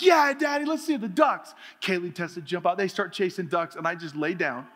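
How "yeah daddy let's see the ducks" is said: put-on high excited kid voice. Kids answering their dad, an excited higher child voice. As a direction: chirp like eager little children. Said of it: "They're like".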